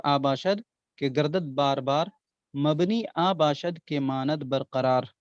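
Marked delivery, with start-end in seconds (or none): 2.6-5.1 second line of the couplet, said slowly; slow verse recital. Shown as a demonstration. Teacher reciting the couplet's second line to students, slow. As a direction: let each word of the verse sit. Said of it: "ये शेर याद कर लें".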